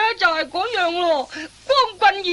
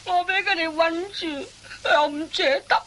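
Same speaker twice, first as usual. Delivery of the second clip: whiny complaint. Acted. Apprentice whining to master.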